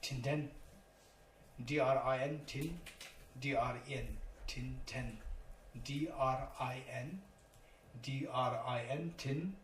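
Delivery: Tinten said as tin-ten, spelled D R I N; spelling Tibetan term. Shown as a demonstration. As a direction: spell out each syllable of Tinten. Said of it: "Number two".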